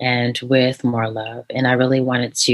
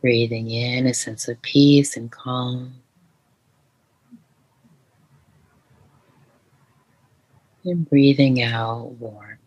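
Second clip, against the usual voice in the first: guided meditation. Shown as a demonstration. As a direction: gently lead the listener into calm. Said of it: "Can we do one right now?".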